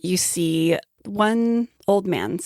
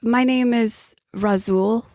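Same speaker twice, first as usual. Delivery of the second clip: put-on old traveler; 5 semitones higher, slower than usual. Razul introduces himself.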